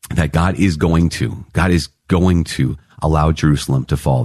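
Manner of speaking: measured, deliberate, with weighty pauses; very clear pronouncement. Retold or imitated. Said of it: "saying very, very clearly".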